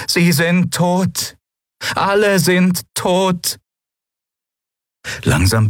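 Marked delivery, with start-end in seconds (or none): 0.1-3.6 high, very slow, otherworldly lilt; strange inhuman voice. Acted. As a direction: ask like a melodic alien creature. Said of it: "melodischen Singsang mit weichem R".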